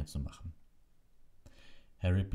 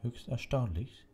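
slow, high, lightly amused; chuckle in voice; 7 semitones higher, slower than usual. A narrator's reading. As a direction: savour it with a hint of a chuckle. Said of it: "mit einem Glucksen in der Stimme".

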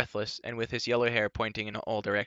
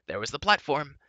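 hushed dramatic whisper; 5 semitones higher, 5 dB louder than usual. A narrator's reading. Dolly telling of the empty hall in a whisper. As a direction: whisper the reveal.

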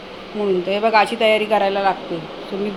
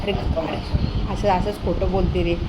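ordinary talk, nothing marked

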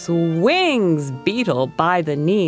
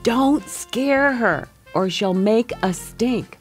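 turtle's warning; 5 semitones higher than usual. A narrator's reading. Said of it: "says Turtle with a wink".

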